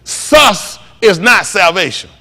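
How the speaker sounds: drawn-out preaching shout; slow shout. Real, not acted. Preacher denouncing the name Jesus.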